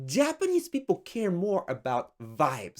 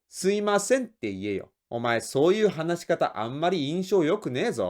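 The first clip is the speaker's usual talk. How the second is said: scolding boss; much faster than usual. Acted.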